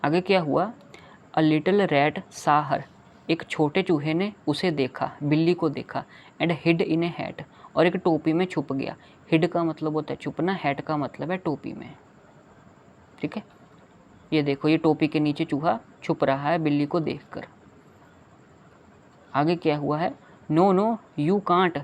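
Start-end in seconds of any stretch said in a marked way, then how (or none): 1.4-2.8 very slow reading. Shown as a demonstration. Reading poem line to children. 6.4-7.4 slow reading. Shown as a demonstration. Reading poem line to children. 20.5-21.8 slow rat line. Acted. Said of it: "said the rat".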